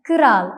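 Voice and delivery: "കിറാൽ" with a short vowel between k and r; Turkish pronunciation. Shown as a demonstration. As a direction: say "കിറാൽ" as kı-ral. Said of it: "കിറാൽ എന്നാണ് ഉച്ചരിക്കേണ്ടത്".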